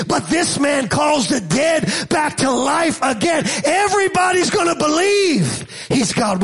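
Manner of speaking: building repeated lines with shouts; fiery preaching. Acted. Preacher voicing the Pharisees' fear, building preaching. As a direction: hammer each "this man" harder.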